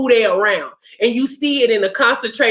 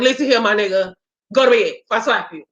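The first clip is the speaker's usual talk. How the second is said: rough talk. Shown as a demonstration. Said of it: "I be talking to them rough like this".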